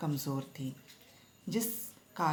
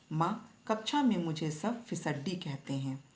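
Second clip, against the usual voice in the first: usual speaking voice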